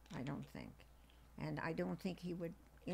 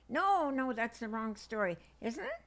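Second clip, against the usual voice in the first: teasing husband voice; 6 semitones higher, 5 dB louder than usual. Retold or imitated. Grandma acts out husband teasing.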